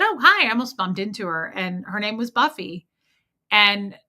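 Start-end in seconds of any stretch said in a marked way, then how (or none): 0.0-0.5 high, louder retold "oh, hi"; acted bright-pitched hello on a near bump; startled greeting. Greeting a woman she almost bumped into, startled.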